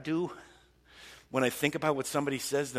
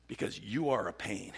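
"Because you are a pain" in one run; voiced, understated acted grievance; exasperated complaint; 3 semitones lower than usual. David complaining in prayer about his enemies, exasperated.

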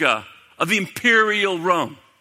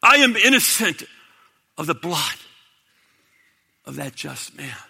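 raised protest fading to a hush; crying out. Retold or imitated. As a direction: cry it out, then let it die away. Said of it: "And he cries out".

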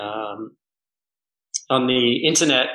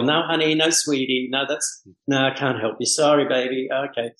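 lightly imitated sweet-talking receptionist; a hint of a honeyed brush-off; Caribbean switchboard lady. Switchboard lady fobbing off a caller, lightly imitated honeyed refusal. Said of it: "the Caribbean sort of feel".

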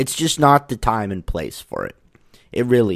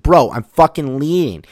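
higher, louder retort; re-enacted yell; 5 semitones higher, 6 dB louder than usual. Climber on the way out yelling back, retold shout. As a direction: throw it back across the gym. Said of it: "I yelled that".

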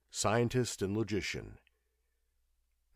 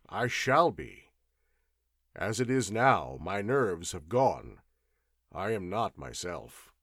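louder, earnest, some phrases slowed; troubled gentleman; 4 dB louder than usual. Acted. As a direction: plead for help while holding composure. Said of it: "he began in a well-modulated voice".

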